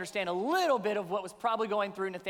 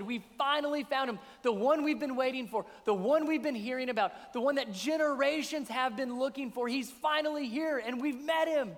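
excited; 3 semitones higher than usual. Acted. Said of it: "is so excited".

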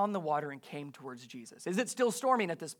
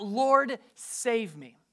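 acted cry for help, LORD high and loud; desperate plea, moderately played; crying out for rescue; 4 semitones higher, 3 dB louder, much slower than usual. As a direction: call out "Lord", then drop on the plea. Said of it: "cried out".

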